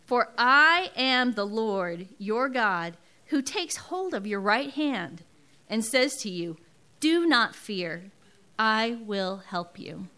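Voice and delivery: slow, weighty reading of the verse; scripture reading. Acted. Preacher reading Isaiah to the congregation, slow and solemn. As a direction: lay each word down like a promise.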